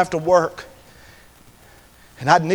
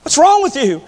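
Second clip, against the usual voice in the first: lightly voiced stepfather, raised pitch; mildly exasperated, rising to louder; bewildered stepfather; 8 semitones higher, 5 dB louder than usual. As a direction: imitate a baffled father questioning his boy. Woken stepfather demands an answer.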